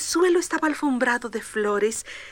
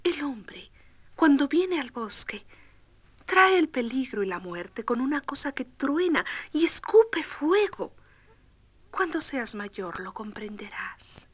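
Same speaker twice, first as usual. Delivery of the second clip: explaining; 2 semitones higher than usual. Acted. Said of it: "su mamá le explicó".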